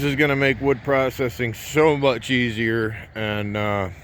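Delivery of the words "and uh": small burp mid-sentence; embarrassed small burp. Real, not acted. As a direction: let a little burp slip out. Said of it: "I burped there".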